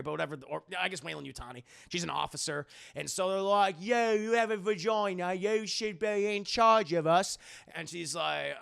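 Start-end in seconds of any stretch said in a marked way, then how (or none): 3.8-7.4 hammed-up Cockney prisoner; mock Cockney. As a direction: put on a broad Cockney accent. Prisoners voiced after Cockney remark.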